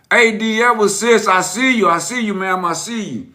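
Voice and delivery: light up and hail a friend who just joined; excited greeting. Real, not acted. Host greeting viewer D Edwards joining the live, excited.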